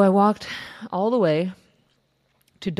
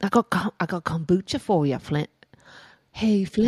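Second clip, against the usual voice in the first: put-on Irish accent; 2 semitones higher than usual. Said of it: "That's, like, Irish or Scottish".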